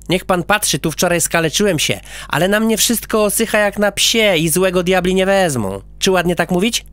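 put-on little boy quoting his mother; boy character.

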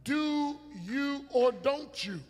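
soft, slow, intimate urging; quiet preaching. Real, not acted.

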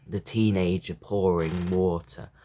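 measured poem recital with pauses; poetry reading. A narrator's reading. Reader sharing a poem about a father, measured recital. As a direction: read the poem line by line, pausing.

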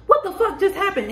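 high, half-laughing disbelief; acted shock. Reacting to an impossible win, amused shock. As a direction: blurt it high, as if stunned.

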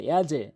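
"ইয়াজে" with the j bounced into a short e; downward qalqalah. Shown as a demonstration. Teacher shows the rule, e-like bounce on "ইয়াজে". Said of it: "সাউন্ডটি নিচের দিকে হবে".

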